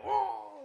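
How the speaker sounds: high-pitched mock "oh!"; imitated cry. Teen acting out the man who saw them, high cry. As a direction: cry out like the strapped-up attraction actor. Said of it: "cuando os veía".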